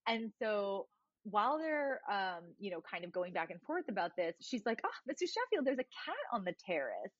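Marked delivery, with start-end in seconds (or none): 4.8-7.1 Fran calling out. Retold or imitated. Fran quoted, high call.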